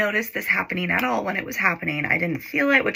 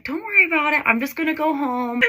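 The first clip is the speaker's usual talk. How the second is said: higher, light soothing quote; imitated reassurance; 8 semitones higher than usual. Boyfriend dropping off his crying girlfriend, imitated reassurance. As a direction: play the unbothered boyfriend, pitched up. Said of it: "he was being very nice".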